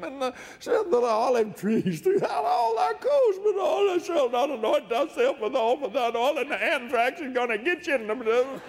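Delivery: fired-up preacher racing through scripture; excited pulpit delivery. Real, not acted. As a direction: preach the curses with rising fervour.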